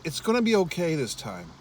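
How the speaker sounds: soft, hopeful inner voice; quiet self-comfort, a touch hopeful; inner reassurance. Retold or imitated. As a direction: talk yourself into it gently. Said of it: "something inside me was saying".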